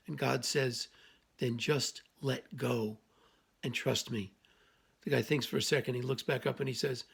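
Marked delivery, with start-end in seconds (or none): 1.4-4.3 low, very slow, calm divine voice; voice of God. Acted. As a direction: speak as God, slow and lower. Voice of God answers.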